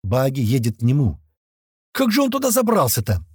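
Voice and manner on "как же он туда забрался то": high-pitched amazed question; astonished, pitched well up; stunned. A narrator's reading. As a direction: gape in disbelief at the sight. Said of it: "охренел от увиденного кирпич".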